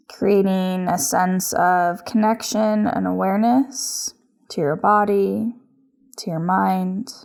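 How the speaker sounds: yoga instruction. Acted. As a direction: guide each breath unhurriedly, with long pauses. Leads a yoga practice.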